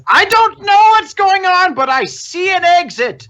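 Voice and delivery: loud, very high-pitched yell, all out; frantic character shout. Acted. Game master as Air Dobbins lunging for an exit, frantic shout. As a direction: shriek it as you lunge for escape.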